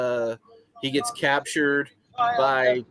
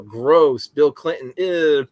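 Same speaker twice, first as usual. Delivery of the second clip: louder, exaggerated disgust; mock disgust; 2 semitones higher, 6 dB louder, much slower than usual. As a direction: sneer it out for laughs.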